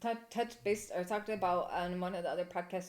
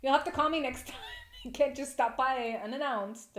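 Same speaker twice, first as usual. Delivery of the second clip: higher, louder sing-song brush-off; mock polite excuse; 7 semitones higher, 7 dB louder than usual. Telling a surprise visitor off, high and sing-song. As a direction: fake a sweet scolding to the caller.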